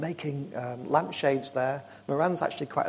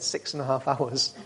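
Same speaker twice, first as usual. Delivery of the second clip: laughing. Real, not acted. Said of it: "I don't know why I'm laughing".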